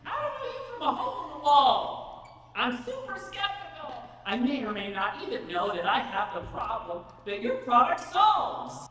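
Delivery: high, drawling Southern skeptic, said with a laugh; southern accent. Acted. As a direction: play a doubtful Southern customer, amused. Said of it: "why she has a southern accent".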